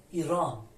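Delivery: ایران opening on a clear ee. Shown as a demonstration. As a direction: say ایران with the first vowel as ee. («ایران» با صدای ای)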